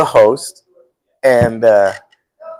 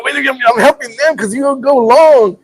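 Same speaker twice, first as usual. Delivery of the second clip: laughing reply; 11 semitones higher, 4 dB louder than usual. Retold or imitated. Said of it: "I go".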